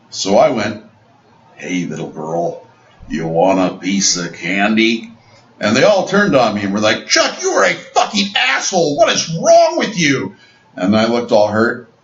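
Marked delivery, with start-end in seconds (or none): 1.5-5.1 low, slow creepy lure; slow mock creepy stranger. Creepy candy offer joke. 7.1-10.3 high mock outraged girl voice; shrill-free high falsetto scolding, mocking the girls; high-pitched mock girl outrage; angry girls. Girls turn on him, acted.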